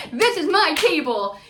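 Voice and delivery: put-on loud, high Long Island accent; imitated Strong Island accent. Imitating Gina claiming her table, loud Long Island accent. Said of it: "she lost that Strong Island accent".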